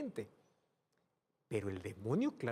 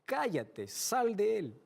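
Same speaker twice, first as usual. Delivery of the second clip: "sal" rising high and loud; commanding rebuke; 7 semitones higher, 4 dB louder, much slower than usual. Acted. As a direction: order the demon out with authority. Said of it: "Basta que el Señor le diga". (reprensión firme, "sal" fuerte y agudo)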